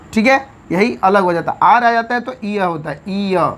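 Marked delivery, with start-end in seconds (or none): 3.1-3.5 ईय said as a drawn-out ee-ya; ईय sound shown. Shown as a demonstration. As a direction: say ईय as a long ee gliding into ya. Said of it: "ईय का उच्चारण होता है". (ईय को लंबा ई-य बोलें)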